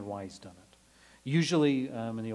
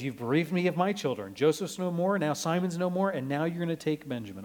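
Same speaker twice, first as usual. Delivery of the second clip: anguished lament; 4 semitones higher, 4 dB louder than usual. Acted. But he says.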